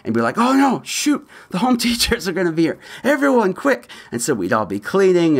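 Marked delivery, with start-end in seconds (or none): 0.4-3.9 high, hurried mock alarm; panicked rush before visitors. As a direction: play the frantic kid rushing to clean. Panicked family before home teachers.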